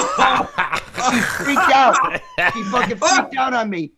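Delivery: laughing through the words; chuckling while telling it. Real, not acted. Laughing retelling her freakout.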